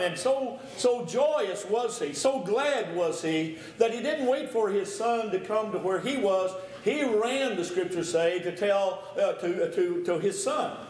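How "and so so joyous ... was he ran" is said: rising joyful fervour. Real, not acted. Preacher describes the father's joy.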